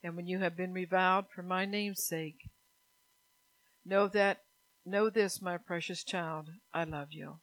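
put-on firm, then hush into "my precious child"; tender voice of God. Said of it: "God says".

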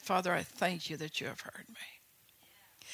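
slow hushed whisper of "Father, I thank you"; whispered prayer. Shown as a demonstration. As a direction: breathe the prayer out softly, slowly. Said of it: "See what he said".

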